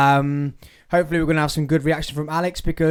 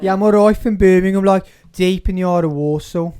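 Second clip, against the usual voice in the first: louder mock Birmingham, slipping toward Liverpool; a drifting Midlands accent, half joking; 3 semitones higher, 5 dB louder than usual. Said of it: "you sound like you're from Liverpool now".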